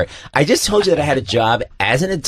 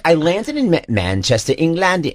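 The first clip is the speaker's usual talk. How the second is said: botched imitation of a Mancunian accent; mock Manchester accent; 6 semitones higher than usual. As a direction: attempt an exaggerated Manchester accent. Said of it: "the Manchester accent".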